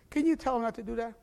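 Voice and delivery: high, fast whiny complaint; mock-annoyed neighbor, rising to a shout; complaining neighbor. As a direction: tattle on Gilbert like a tired neighbor. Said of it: "the Christian party".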